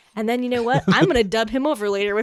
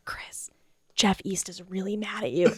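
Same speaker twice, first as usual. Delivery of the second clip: gossip whisper; 2 semitones lower, 6 dB quieter than usual. Retold or imitated. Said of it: "They're like".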